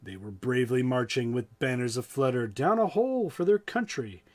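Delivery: lively rhyming read-aloud; story narration. A narrator's reading. Storyteller reading the butter story to listeners, lively. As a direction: tell the rhyme with a bouncing beat.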